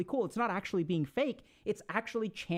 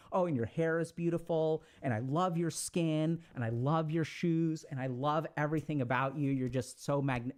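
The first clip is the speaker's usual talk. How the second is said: mock gushing; 2 semitones lower than usual. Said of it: "verbal diarrhea on them of appreciation".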